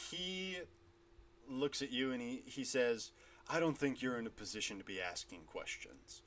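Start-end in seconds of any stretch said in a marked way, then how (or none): 3.5-6.2 menacing warhammer man. Acted. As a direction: lean in and sneer the question softly. GM voices warhammer figure.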